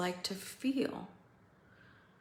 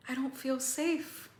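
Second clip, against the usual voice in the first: pitched up with alarm; a frightened cry, pitched up; higher, scared voice; 6 semitones higher than usual. Acted. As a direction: say it high and frightened. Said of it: "to, "Holy shit".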